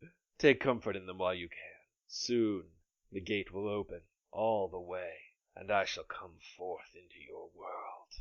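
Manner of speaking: low-key evil spirit gloating; menacing smoke creature. Acted.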